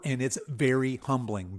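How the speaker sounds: "very" leaned on hard, reading the caps aloud; stress on very. Shown as a demonstration. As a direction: punch "very" in "very humbling". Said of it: "very in all caps".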